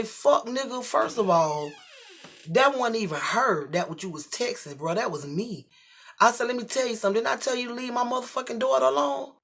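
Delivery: loud, high and heated; father yelling at man on the phone; angry phone rant. Retold or imitated. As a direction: chew him out on the phone.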